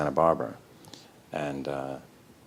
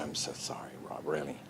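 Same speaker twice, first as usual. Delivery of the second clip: hushed apology; 3 semitones lower, 11 dB quieter than usual. Retold or imitated. Quiet apology.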